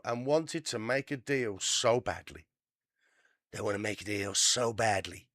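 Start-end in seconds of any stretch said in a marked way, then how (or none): 3.5-5.3 Trump impression. Reading the news, mocking Trump's boast. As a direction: do your best bad Trump. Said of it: "I know it's a bad impression".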